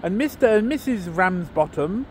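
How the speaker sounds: a put-on, hammy northern English accent for the whole poem; terrible northern English accent. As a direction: read it like an old Lancashire monologue, accent laid on but not polished. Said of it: "excuse the terrible accent".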